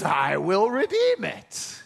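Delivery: "I" leaned on, slow and deliberate; stress on I. Shown as a demonstration. Preacher quoting the kinsman, stress on "I". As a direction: put the weight on "I". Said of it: "Emphasis on I".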